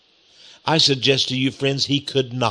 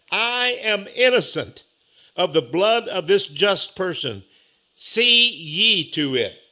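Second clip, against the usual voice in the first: governor washing hands; 3 semitones higher, slower than usual. Acted. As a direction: declare innocence slowly. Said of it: "and he said".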